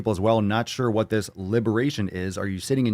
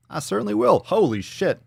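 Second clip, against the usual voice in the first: Iago; 10 semitones higher, 4 dB louder than usual. Acted. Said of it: "I almost heard Iago".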